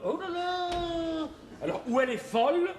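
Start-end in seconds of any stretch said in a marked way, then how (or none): 0.1-1.3 mocking oh là là. Mocking wife's igloo remark.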